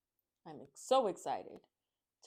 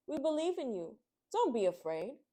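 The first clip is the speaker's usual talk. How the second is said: smiling encouragement; 6 semitones higher, 5 dB louder than usual. Acted. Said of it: "the mother bird smiled".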